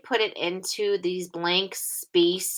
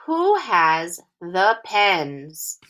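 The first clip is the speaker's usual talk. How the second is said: slow read-along; much slower than usual. Shown as a demonstration. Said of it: "read this sentence together".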